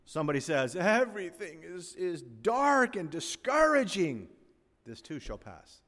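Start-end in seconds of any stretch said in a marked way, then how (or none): 0.8-4.3 gloomy complaint. Retold or imitated. Quoting a despairing person. 4.8-5.8 hushed reassurance; soft motto. Real, not acted. Motto repeated, much softer.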